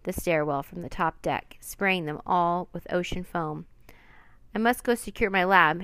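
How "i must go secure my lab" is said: loud urgent call over the wind; shouting. Acted. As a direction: shout it over a howling storm. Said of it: "Henry shouted".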